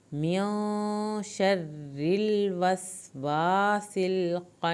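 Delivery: very slow chanted recitation; Quranic recitation. Shown as a demonstration. Teacher recites the verse for her students, slow and melodic. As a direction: draw each syllable out melodically. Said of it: "سین پہ سیٹی کی آواز نکالیں".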